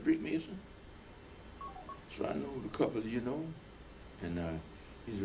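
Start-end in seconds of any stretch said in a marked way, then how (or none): 0.0-0.6 high, rising quizzical question; surprised question. Retold or imitated. Boss asking the newcomer, high and surprised. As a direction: ask it as if surprised, pitched up. Boss asks in retold scene.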